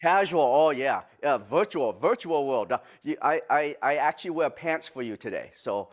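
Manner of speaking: low-key joking in a fake Japanese accent; Mister Miyagi. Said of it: "my very bad Mister Miyagi accent".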